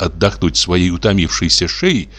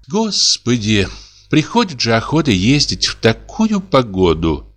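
sighing; 4 semitones higher than usual. Acted. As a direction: let the words sag with a sigh. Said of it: "вздохнула дичиха".

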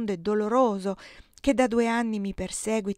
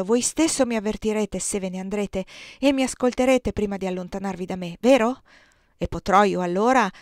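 louder, pressing plea that he never leave; urgent pleading; 7 dB louder than usual. Acted. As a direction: beg him, voice raised and insistent. Corinna pleading with Osvaldo. (Corinna implora Osvaldo di non partire, con voce alta e incalzante)

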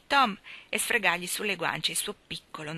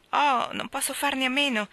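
impatient; 7 semitones higher, 4 dB louder than usual. A narrator's reading. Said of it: "disse Maggie con impazienza".

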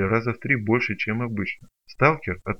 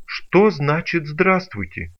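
slow, higher mock outrage; indignant; 6 semitones higher, 5 dB louder, much slower than usual. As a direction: drag out the indignation, louder. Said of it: "возмутился сталкер". (возмущённо, медленно)

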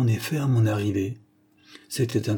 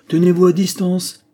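loud, high cry to keep away; sudden shouted order, pitched well up; urgent warning; 8 semitones higher, 8 dB louder than usual. A narrator's reading. Sick Holmes warns Watson away. (cri d'alarme, fort et aigu)

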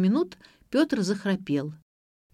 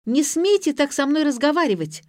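high, loud, offended outburst; indignant teenager, voice jumping up; flaring up; 9 semitones higher, 6 dB louder than usual. A narrator's reading. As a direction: explode at being patronised. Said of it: "взвилась Ксения".

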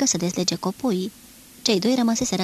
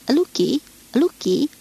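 loud high call into the woods; calling the dogs; 6 semitones higher, 6 dB louder, slower than usual. Acted. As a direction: shout the dog's name across the forest. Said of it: "striga colonelul".

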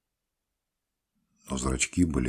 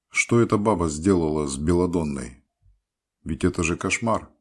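agitated; 3 semitones higher, 6 dB louder than usual. A narrator's reading. Doctor outraged at the peasant woman.

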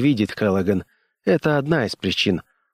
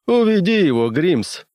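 grumbled; 8 semitones higher than usual. A narrator's reading. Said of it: "проворчал Брент".

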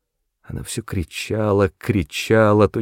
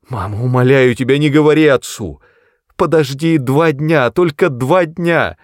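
high, loud, tearful begging; desperate sobbing plea; 7 semitones higher, 6 dB louder than usual. A narrator's reading. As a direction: beg desperately through tears. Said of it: "Отчаянно рыдала Мэри".

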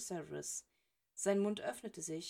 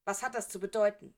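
louder, sharp challenge; hissed demand; 8 dB louder than usual. A narrator's reading. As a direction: snap it at the intruder. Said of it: "zischte Snape".

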